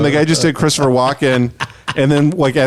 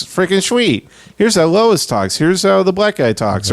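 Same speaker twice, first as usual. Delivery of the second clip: high, slowed cheesy comic voice; mocking a bad impressionist; 8 semitones higher, slower than usual. Retelling a hack comic, high and cheesy. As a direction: ape a hack doing voices. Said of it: "worst impressions of all time".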